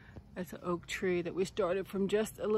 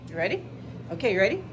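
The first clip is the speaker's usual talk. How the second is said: excited pet talk; 3 semitones higher, much faster than usual. Real, not acted. Playing fetch.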